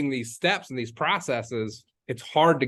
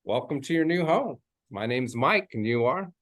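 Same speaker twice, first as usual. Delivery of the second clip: welcoming greeting. Shown as a demonstration. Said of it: "That's the W Y".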